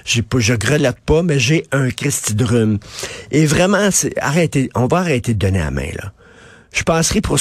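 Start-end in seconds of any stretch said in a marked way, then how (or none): 0.0-2.8 stuffy head cold; runny nose while talking; snotty crying. Real, not acted. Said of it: "j'ai le nez qui coule".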